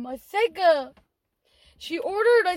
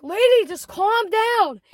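drawn-out, louder retold plea; exasperated plea; 4 semitones higher, 5 dB louder than usual. Manager tells yelling customer to settle, exasperated. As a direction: slowly urge her to settle, voice raised.

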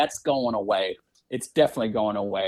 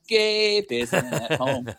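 answering machine voice; 3 semitones higher, much slower than usual. Pretend. Mock answering-machine line.

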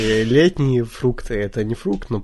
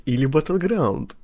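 teasing suggestion; 4 semitones higher than usual. Shown as a demonstration. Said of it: "ты должен был сказать".

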